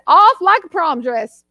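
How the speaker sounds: playful Southern delivery of the saying; Southern accent. Shown as a demonstration. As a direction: say it with a Southern twang.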